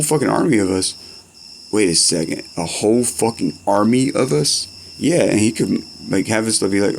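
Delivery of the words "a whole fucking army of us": slow, disbelieving repeat; stunned slow question; incredulous echo. Real, not acted. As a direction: drag it out like you can't believe it. Echoes friend's words in disbelief.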